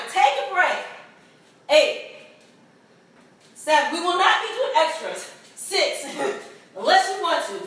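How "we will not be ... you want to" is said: giggling through the words; laughing. Real, not acted. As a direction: laugh while counting. Laughs during count.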